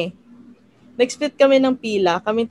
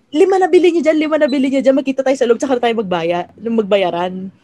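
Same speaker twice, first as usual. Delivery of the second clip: urgent calling out; 4 dB louder than usual. Retold or imitated. Calling friends urgently on phone.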